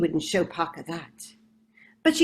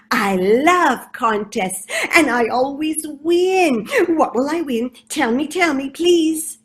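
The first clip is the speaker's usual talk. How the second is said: eager rat; 5 semitones higher, 6 dB louder than usual. Acted.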